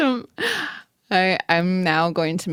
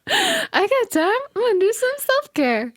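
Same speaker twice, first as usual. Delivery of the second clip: playful teasing. Pretend. Teasing echo of friend's line.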